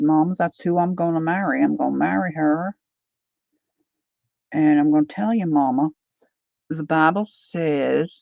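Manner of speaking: lightly imitated Tennessee drawl; Leanne Morgan. Comedian quoting her son to his mama, light Tennessee drawl. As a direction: retell it with a Southern twang. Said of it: "she's got this Tennessee drawl".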